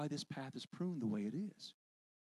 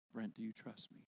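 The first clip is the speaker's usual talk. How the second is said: much softer, low, hushed voice of God; almost whisper the question gently; God's voice; 6 semitones lower, 11 dB quieter than usual. Retold or imitated. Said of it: "that voice say again".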